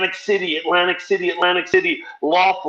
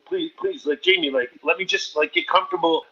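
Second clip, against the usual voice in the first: pleading; 4 dB quieter than usual. Retold or imitated. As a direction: whine to be let off the hook. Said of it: "I go".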